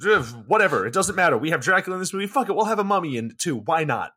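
lightly voiced careless filmmaker; mock careless filmmaker. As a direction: shrug it off like a lazy studio exec. Voicing careless filmmakers deciding things.

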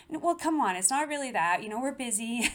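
high, flustered self-defence; sheepishly defensive excuse; defensive protest. Retold or imitated. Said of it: "I felt a need to kinda defend myself".

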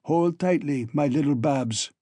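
a hint of a booming giant calling down to her; Poulter's rumble. A narrator's reading. Giant Poulter to tiny Babs in the cage, lightly booming. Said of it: "the blurred rumble of Poulter's voice".

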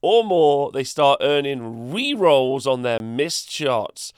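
slow, emphatic rules announcement; rulebook read-aloud. Acted. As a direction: read the rules out with drawn-out showmanship. Reads rules aloud with showy delivery.

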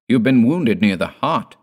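urgent exclamation to a wounded father; crying out. A narrator's reading. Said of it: "cried Dord".

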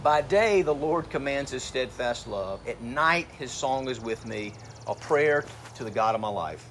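slow, measured psalm reading with a strong first word; scripture reading. Acted. Preacher reads a psalm to the congregation, slow and solemn. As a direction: read the verse slowly and solemnly.

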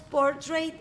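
"portrait" with a full ay in the second syllable; mispronounced English word. Shown as a demonstration. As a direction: say "portrait" as por-TREIT, Spanish accent. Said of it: "no sé pronunciar portrait".

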